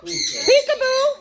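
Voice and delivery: slow, high singsong peekaboo; parrot voice. Retold or imitated. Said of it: "He said, "Peekaboo".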